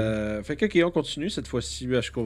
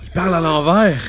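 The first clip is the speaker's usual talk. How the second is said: whispering; 7 semitones higher, 10 dB louder than usual. Pretend. Players joke, whispering eerily.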